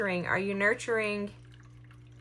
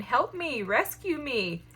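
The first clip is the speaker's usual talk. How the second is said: lightly voiced infant, higher and slow; mock baby plea; 4 semitones higher than usual. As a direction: plead like a small child, lightly. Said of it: "an infant baby saying".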